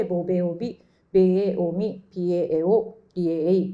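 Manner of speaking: each word ボベオビ, ベエオミ, ピエエオ, リエエイ said on its own and set apart; Russian sound reading. Shown as a demonstration. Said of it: "と読みます".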